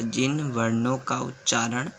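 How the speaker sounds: slow, measured dictation pace; teacher dictating a definition word by word. Shown as a demonstration. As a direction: spell it out slowly so students can write. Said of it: "लिखिए परिभाषा".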